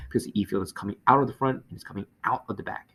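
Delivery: fast, with out stressed each time; quick teacher's run, stressing out; emphasizing out. Shown as a demonstration. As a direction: lean on each out. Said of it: "I'm emphasizing the word out".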